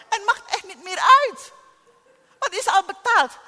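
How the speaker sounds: high, loud laughing cry; joyful shout. Real, not acted. Preacher to congregation, a loud joyful laughing shout. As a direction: shout it out with delight.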